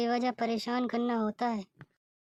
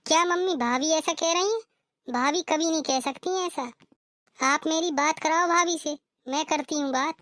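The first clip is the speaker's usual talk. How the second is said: higher-pitched, incredulous reaction; shocked disbelief; 4 semitones higher than usual. Acted. Daughter hearing of her sister-in-law's threat, shocked and disbelieving. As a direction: refuse to believe it, voice raised in pitch.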